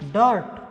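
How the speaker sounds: टर्म with the er sound; model pronunciation. Shown as a demonstration. Teacher to students, demonstrating the er vowel. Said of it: "ये है इस sound के example".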